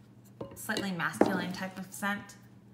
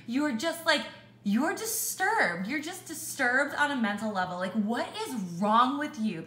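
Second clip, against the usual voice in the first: retold scolding; 3 semitones higher than usual. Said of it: "and I'm screaming at him".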